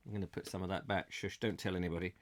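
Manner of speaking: low, fast, hushed secret; conspiratorial whisper. Pretend. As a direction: hush it like sharing a secret. Conspiratorial aside about jam.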